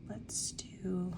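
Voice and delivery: soft whisper to herself; whispered aside. Real, not acted. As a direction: murmur it under the breath. Quiet budgeting aside, unvoiced.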